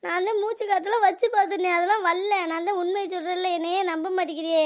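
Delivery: acted upset pleading to be believed; distraught insistence. Daughter insists mother is not breathing.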